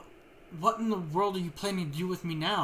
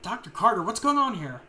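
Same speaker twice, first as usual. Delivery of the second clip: alarmed demand; 3 semitones higher, 5 dB louder than usual. Acted. Restrained woman panics at doctor.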